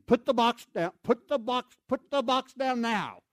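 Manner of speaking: the legs beg you to drop it; mock yell from tired legs; legs screaming. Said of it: "my legs are screaming".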